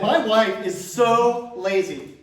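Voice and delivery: slow joke setup; slow, drawn-out setup. Shown as a demonstration. Comic retakes the wife joke line, slow and drawn out. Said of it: "Let's do that again".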